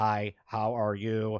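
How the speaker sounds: very slow, drawn-out, mechanical robot voice. Showing how AI voices sounded eight months ago: imitating a robotic AI voice. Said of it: "it sounded like".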